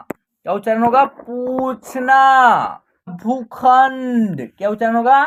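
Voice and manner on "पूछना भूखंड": slow, stretched syllables on a level pitch; drawn-out word drill. Shown as a demonstration. Teacher reading out a Hindi word list for practice, drawn out. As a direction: read each word slowly, holding the long vowels.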